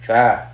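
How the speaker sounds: "Tha" with TH as in "think", low pitch; pronunciation model. Shown as a demonstration. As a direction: model "Tha" with the tongue between the teeth. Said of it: "it sounds like the English T H".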